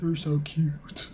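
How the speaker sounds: slow, drawn-out sugary coo; fawning girlfriend. Acted. Girlfriend repeats it to her boyfriend, slow and cooing. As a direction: stretch every word lovingly.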